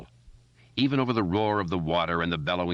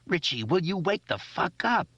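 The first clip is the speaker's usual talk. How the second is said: much higher, cracking plea; shaky, near tears; 13 semitones higher than usual. A narrator's reading. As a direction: beg him to wake, voice breaking. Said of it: "Ben's voice was blurring now, becoming shaky".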